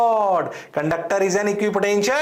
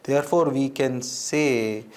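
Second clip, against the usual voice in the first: slow emphasis; 6 semitones lower, much slower than usual. Shown as a demonstration. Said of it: "ध्यान से सुनना".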